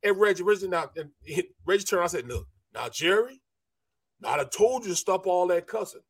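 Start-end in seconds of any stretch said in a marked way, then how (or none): 2.3-6.0 lightly imitated stern warning; Reggie's way of talking. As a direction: act out a measured telling-off that builds. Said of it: "That's how he talks".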